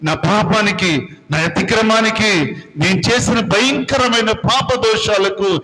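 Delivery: penitent prayer that builds and sinks to a hush; pleading prayer. Acted. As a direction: beg the Lord for mercy, fading out at the end.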